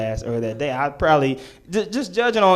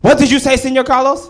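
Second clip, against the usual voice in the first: much higher, louder outraged demand; outraged teacher; 11 semitones higher, 7 dB louder than usual. Retold or imitated. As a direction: rise up in shocked indignation. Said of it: "she goes".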